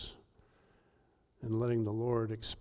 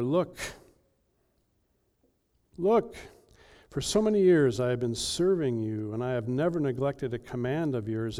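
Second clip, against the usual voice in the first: put-on angry older brother. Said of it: "But he became angry".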